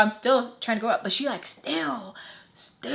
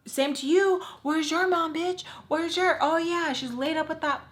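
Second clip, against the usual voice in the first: mock mean friend; 7 semitones higher than usual. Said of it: "And she's like".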